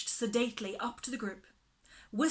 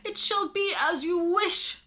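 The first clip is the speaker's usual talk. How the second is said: high, loud sobbing resignation; tearful surrender; 8 semitones higher, 7 dB louder than usual. A narrator's reading. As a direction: give in through sobs. Miss Lark tearful.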